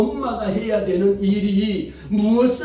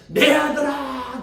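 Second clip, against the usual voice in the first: tender mother; 6 semitones higher, slower than usual. Retold or imitated. Mother blesses her son.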